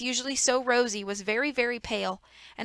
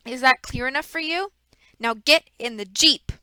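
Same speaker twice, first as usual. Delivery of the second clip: menacing villain. Acted. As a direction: threaten the children with a knife. Stefano threatens with knife.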